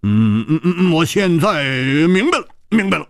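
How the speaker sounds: hesitant hums climbing to high excitement; stunned pause breaking into eager understanding; dawning realization. A narrator's reading. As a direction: hum it over, then get it with rising pitch. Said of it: "胡铁花愣了一会儿".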